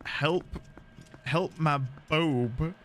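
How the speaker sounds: slow, attempted Scottish accent; best go at a Scottish accent, word by word. Shown as a demonstration. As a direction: put on a careful, drawn-out Scottish accent. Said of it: "put on my best Scottish accent".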